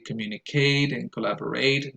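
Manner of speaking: communicate and collaborate with the last syllable stressed; end-stressed communiCATE and collaboRATE; learners' misplaced stress. Retold or imitated. Teacher quoting learners, communicate and collaborate stressed on the endings. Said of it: "I hear some learners say".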